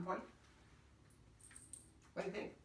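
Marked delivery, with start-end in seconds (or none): 2.1-2.5 talking through a mouthful of dessert; mouth full. Real, not acted. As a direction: say it while chewing. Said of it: "not polite to talk with your mouth full".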